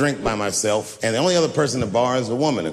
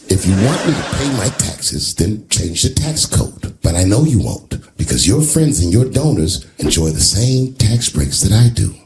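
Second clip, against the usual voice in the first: Trump shooting back; 5 dB louder than usual. Retold or imitated. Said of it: "He shot right back".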